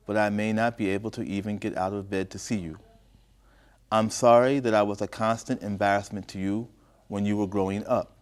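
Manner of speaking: story narration. A narrator's reading. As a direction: read the letter out phrase by phrase. Reads the mother's letter aloud.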